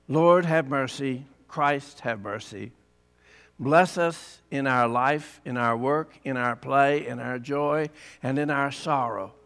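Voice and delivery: gentle, measured prayer voice. Acted. Pastor praying with the children, gentle prayer.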